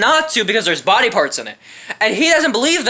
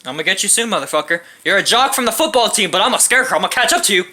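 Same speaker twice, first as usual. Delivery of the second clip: slow scarecrow voice; 3 semitones lower, faster than usual. Pretend. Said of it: "the scarecrow's moving like this".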